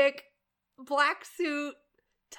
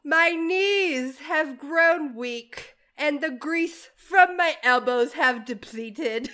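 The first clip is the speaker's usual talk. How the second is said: put-on British accent; 2 semitones higher, 4 dB louder than usual. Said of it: "How's my accent?".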